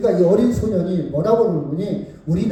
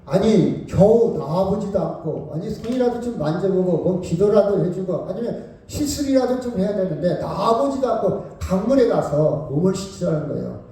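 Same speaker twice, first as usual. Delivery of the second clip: mildly huffy general who feels slighted; indignant general; 2 semitones higher than usual. Retold or imitated. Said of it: "나만 장군이 화를 냅니다". (무시당해 화난 나만 장군 흉내)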